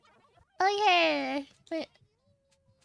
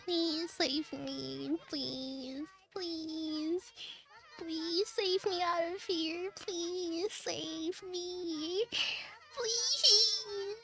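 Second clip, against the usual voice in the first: soft, slow, drawn-out begging; half-hearted mock pleading; 6 dB quieter, much slower than usual. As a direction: whimper it like a hammed-up plea for rescue.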